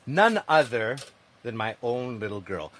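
bright, upbeat podcast-host opening; show host intro. Acted. Host welcoming listeners to his show, upbeat announcer voice. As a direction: welcome the audience like a radio host.

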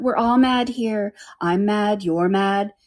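lightly voiced, matter-of-fact oddball; Cheshire Cat. The cat explains madness to Alice, matter-of-fact.

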